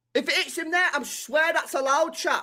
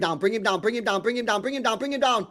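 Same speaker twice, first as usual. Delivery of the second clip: urgent repeated urging; 3 semitones lower, faster than usual. Real, not acted. Urging players during live match.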